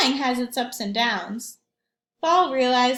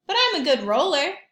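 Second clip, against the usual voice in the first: Ball brightening up; 5 semitones higher, 6 dB louder, faster than usual. Acted. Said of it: "Ball said".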